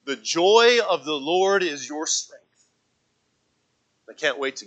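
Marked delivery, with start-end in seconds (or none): 0.1-2.4 slow solemn quote. Retold or imitated. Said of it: "he says these words".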